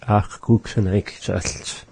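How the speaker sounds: slowly spelled out statement; slow careful statement. Shown as a demonstration. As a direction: say it slow and deliberate. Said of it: "I don't want it".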